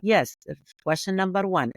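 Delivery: stiff, rehearsed robot answer. Shown as a demonstration. Guest mocking rehearsed podcast answers, stiff robotic voice. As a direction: read it out like a programmed machine. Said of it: "like a robot".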